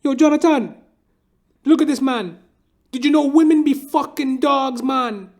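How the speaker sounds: high, loud Trinidadian barber voice; a hammed-up old Trinidadian dude; barber impression. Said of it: "He'd be like".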